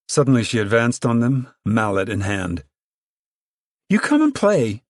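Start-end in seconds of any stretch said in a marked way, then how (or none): 3.9-4.8 high, louder angry order; demanding. A narrator's reading. Ruthie demands the children play, higher and louder. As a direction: order them back onto the court. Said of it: "she demanded".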